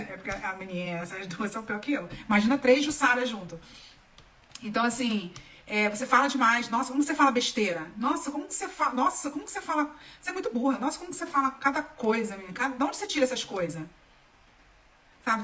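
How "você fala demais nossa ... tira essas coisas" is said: retold put-down in exasperated rush; mock scolding. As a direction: imitate someone belittling a child. Acting out childhood verbal put-downs.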